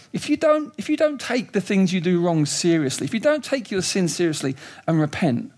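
urgent, rising warning; warning voice of Jesus. Retold or imitated. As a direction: press the danger on them. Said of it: "when Jesus sort of says".

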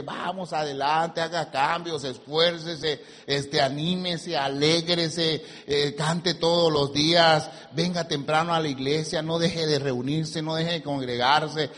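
slow, stretched-out list of urgings; steady preacher's chant, words lengthened; preacher's exhortation. Acted. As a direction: draw out each command to the congregation. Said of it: "Los cultos es para decirle".

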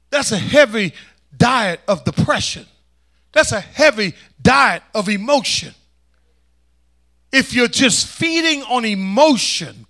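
punchy phrases with weighted pauses; forceful preaching. Real, not acted. Preacher warning about a diet of emotion, forceful preaching. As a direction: hammer each phrase home.

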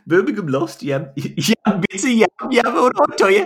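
high-pitched mock Brummie; Birmingham fan accent. Joking as a Birmingham City fan, high mock Brummie. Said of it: "sounds like s-, uh, Birmingham City fan".

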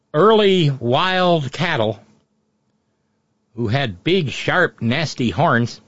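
put-on light Minnesota accent; a hint of Minnesota vowels. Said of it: "in my bad Minnesota accent".

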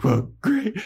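high, sarcastic well, great; sulky mock Buffy. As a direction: whine it sourly. Buffy sulking in retold quarrel.

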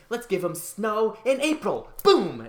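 slow, mischievous scheming voice; Mother Nature voiced. Host voicing Mother Nature plotting Chicago weather, slow and scheming. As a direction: scheme like a playful goddess. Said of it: "It's like".

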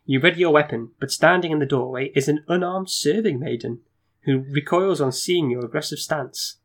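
measured storyteller reading; gamebook narration. A narrator's reading. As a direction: set the scene for the player.

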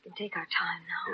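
hushed whisper. Real, not acted. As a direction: whisper so nobody overhears. Secret lovers talking alone.

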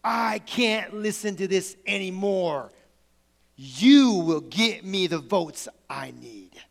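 slow, deliberate, commanding anger; angry Lincoln outburst. Acted. Lincoln to his arguing cabinet after slamming the table, angry and emphatic. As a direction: act out a slow demand, weighting each word. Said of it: "he slams his hand, he says this".

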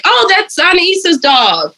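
retold excitement. Retold excited crew reaction.

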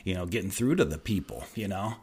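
understated, deflated admission; disappointed. Retold or imitated. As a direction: quote him as quietly disappointed in himself. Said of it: "he kinda looked kind of disappointed".

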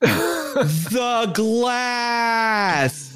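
very slow, shouted and aggressive; mock shout slowly at a foreigner; slow angry shout. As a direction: yell it slowly at someone who doesn't understand. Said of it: "Shouts it slowly and angrily".

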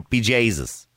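Irish accent, drawn out "Be Jesus". Shown as a demonstration. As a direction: show her the Irish accent. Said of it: "Say, do me a favour, ju-, just say".

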